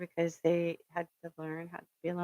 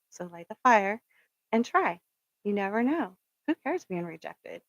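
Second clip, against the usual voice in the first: louder, urging push; rousing call; 2 semitones higher, 4 dB louder than usual. Real, not acted. Vlogger urging viewers to go for it, loud. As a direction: fire them up on every word.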